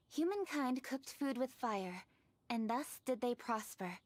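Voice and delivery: put-on slow, measured recital of an old text; reading aloud. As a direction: read the passage like ancient scripture, unhurried. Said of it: "it says the following".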